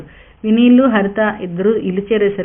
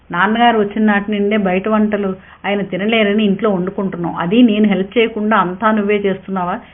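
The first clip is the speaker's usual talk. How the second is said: snapping angrily. Acted. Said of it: "గయ్యమన్నాడు Vineel".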